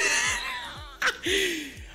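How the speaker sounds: very high squealing laugh; laughter. Retold or imitated. Grandma denying it was on purpose, squealing with laughter. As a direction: break into a high helpless squeal.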